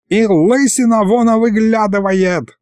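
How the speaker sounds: put-on high, slow old man's shout; old man's yell. A narrator's reading. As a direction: bellow it as the frantic old grandad. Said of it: "заорал Михалыч".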